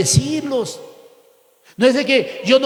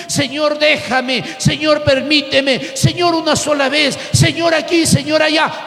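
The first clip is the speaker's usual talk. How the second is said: nagging prayer; 3 semitones higher than usual. Retold or imitated. Preacher imitating a believer nagging God, mock pleading. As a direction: beg God over and over like a child.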